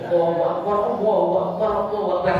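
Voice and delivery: quick Allahu Akbar, the words slurred and swallowed; sloppy clipped takbir; wrong clipped takbir. Shown as a demonstration.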